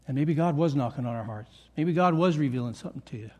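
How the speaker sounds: normal talking voice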